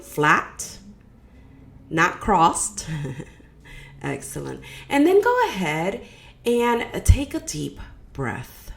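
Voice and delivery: measured guiding voice with long pauses between phrases; guided meditation. Acted. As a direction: lead them inward, phrase by phrase, leaving space.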